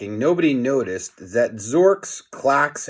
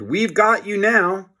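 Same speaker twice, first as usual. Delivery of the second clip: much higher triumphant villain cry; villain shout; 8 semitones higher than usual. A narrator's reading. Alien Zorks corners the heroes, gloating shout. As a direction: gloat as you corner them.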